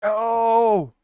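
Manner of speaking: sudden loud "oh"; surprised. Real, not acted. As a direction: caught off guard, blurt it out. Sudden surprise while streaming.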